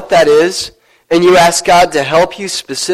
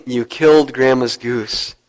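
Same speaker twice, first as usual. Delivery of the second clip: lower, slow, accusing big-sister voice; awful sister voice; 5 semitones lower, 3 dB quieter, slower than usual. Acted. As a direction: drag it out as a tattling sister. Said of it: "an awful voice of his older sister".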